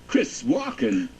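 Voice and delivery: Walken impression. Shown as a demonstration. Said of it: "if someone's doing an impression".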